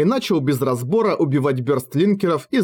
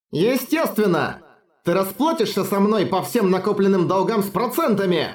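angry retort; 6 semitones higher than usual. Acted. Red Queen retorts angrily.

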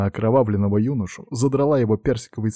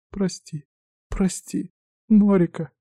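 hoarse voice; 10 semitones higher, slower than usual. Acted. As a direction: plead through a strained throat. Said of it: "отвечая хрипшим голосом". (хриплое виноватое «прости», высоко и тихо)

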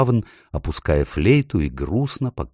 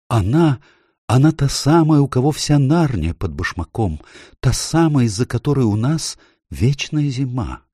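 higher, hushed emphasis on та самая; dread; 7 semitones higher than usual. A narrator's reading. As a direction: tell of the witch with awe. Faun describing the witch.

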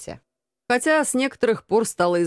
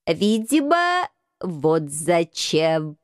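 gloomy; 3 semitones lower, much slower than usual. Acted. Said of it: "мрачно заметил кот".

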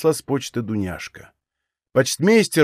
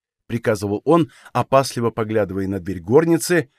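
ordinary delivery

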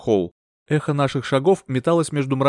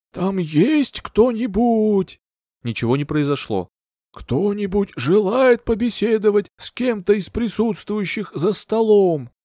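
higher, slow, otherworldly call to the spirits; mystic medium calling; 8 semitones higher, slower than usual. Acted.

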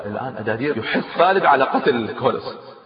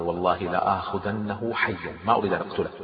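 inner resolve; 5 semitones lower, 8 dB quieter than usual. A narrator's reading. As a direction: swear it quietly under your breath. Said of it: "كما هو يفكر".

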